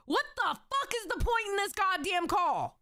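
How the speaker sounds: high-pitched fed-up demand; exasperated outburst. Real, not acted. Streamer fed up with a pointless call, exasperated outburst. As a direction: throw up the pitch in frustration.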